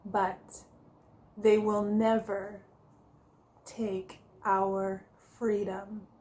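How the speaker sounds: "take our freedom" stretched out slowly after a dramatic pause, a light William Wallace rallying cry; rally the troops lightly, like Wallace; Braveheart speech. Retold or imitated. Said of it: "as Mister William Wallace so famously said".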